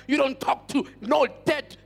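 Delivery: mildly indignant rebuke, a little forceful; retold anger. Preacher recalling his anger at relatives talking to the grave, retold indignation. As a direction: scold with contained anger. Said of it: "I'm getting angry in the inside".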